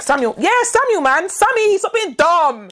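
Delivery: mock chummy insistence. Prank back-and-forth with Samuel, hammed-up matey insistence. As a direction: insist as if he really is your mate.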